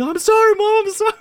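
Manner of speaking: put-on high, loud pleading kid voice; kid apologizing. Boy pleads with his mom after the accident, high and loud. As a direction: beg forgiveness like a caught boy. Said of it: "friend apologizing to his mom".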